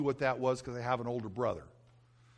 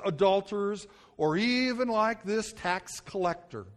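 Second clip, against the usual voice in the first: smug Pharisee; 4 semitones higher than usual. Acted. Pharisee prays about himself.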